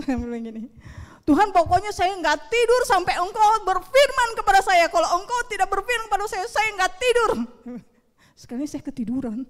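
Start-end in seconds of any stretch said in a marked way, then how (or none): 1.3-7.3 high, loud re-enacted demand; stubborn insistence. Preacher re-enacting his late-night ultimatum to God, stubbornly insistent. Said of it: "Ini saya ngotot dengan Tuhan".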